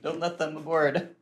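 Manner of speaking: loud, urgent acted yell; screamed warning. A narrator's reading. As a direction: yell a frantic warning to the crew. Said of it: "he screams".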